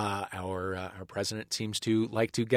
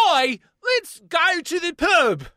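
slow, much higher mock British "Oi, let's go to the pub"; British accent; 5 dB louder, much slower than usual. Shown as a demonstration. Host demonstrating the British accent he slips into, hammed-up. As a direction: drawl it out like a stage Londoner. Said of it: "I'll say things like".

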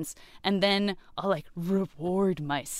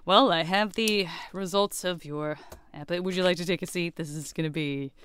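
grave doctor; 2 semitones lower than usual. Pretend. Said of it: "I even clicked my pen soberly".

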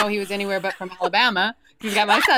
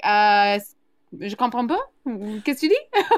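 confident French. Retold or imitated. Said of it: "the confidence to be like".

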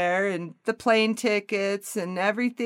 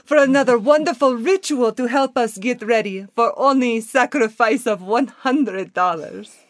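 mock-solemn sales pitch in Russian-like accent; accented guru selling a ritual; spirit-school leader's accent. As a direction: pitch it in the group's put-on accent. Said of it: "start using that voice".

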